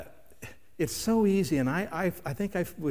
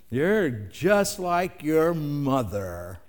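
drawn-out, slightly louder jab; cutting accusation; 4 dB louder, much slower than usual. Acted. Spouse in a tense conversation, acted cutting accusation.

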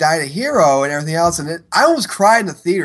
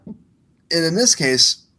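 hiccups breaking the words; talking through hiccups; hiccuping; much slower than usual. Real, not acted. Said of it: "sorry, I'm hiccuping".

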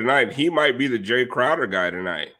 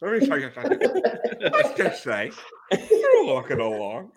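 Fire Marshal Bill. Retold or imitated. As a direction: slip into the nineties sketch character. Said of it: "That's pretty good".

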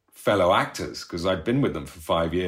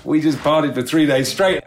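repeated through real laughter, pitched up; laughing; 7 semitones higher, 4 dB louder than usual. Real, not acted. Telling the interviewer about the party, laughing. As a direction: laugh it out in disbelief.

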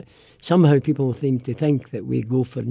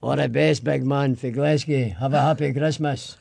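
Glaswegian accent. Shown as a demonstration. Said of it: "Say that again in Glaswegian".

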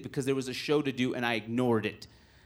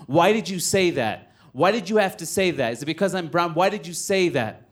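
retold outburst at a heckler; retold angry confrontation; 2 semitones higher than usual. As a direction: act out an indignant challenge. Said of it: "I was so angry".

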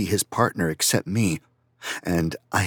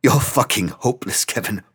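grinning; 3 semitones higher, 4 dB louder than usual. Acted. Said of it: "Franz grinned at me suddenly".

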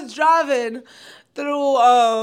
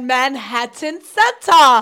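mock scream; 4 dB louder, slower than usual. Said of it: "So she just screams it".

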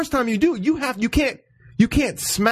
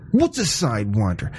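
imitating her puzzled question; 8 semitones lower than usual. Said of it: "she goes".

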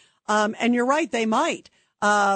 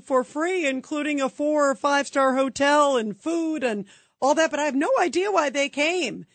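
sarcastic mock dismay; 5 semitones higher than usual. Mocking city officials' feigned dismay.

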